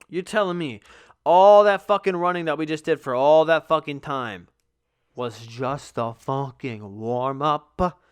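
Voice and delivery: loud, incredulous, stretched out at the end; outraged disbelief. Retold or imitated. To the coaches after the run, loud outraged disbelief. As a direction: rant that it was only a warm-up. Outraged at two-mile warm-up.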